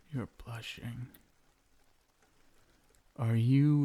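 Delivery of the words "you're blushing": laughing. Acted. Teasing his blushing bride.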